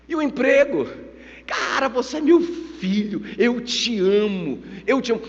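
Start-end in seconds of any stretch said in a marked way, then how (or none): 1.5-5.2 heartfelt affection. Acted. Father voiced, professing love to son.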